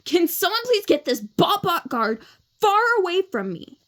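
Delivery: Tessa's voice. Shown as a demonstration. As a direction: whine to get the guard away. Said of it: "then Tessa's is".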